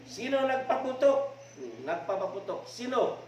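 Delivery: high angry yelling; furious drunk yelling; shouting angrily. Acted. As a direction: demand an answer in a rage. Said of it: "Lalong nagsusumigaw".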